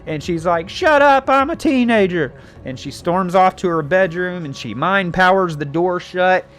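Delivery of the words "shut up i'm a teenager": high, loud mock tantrum; hammed-up teenage comeback; bratty teen. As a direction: yell it like an outraged teenager. Acted teen snapping back.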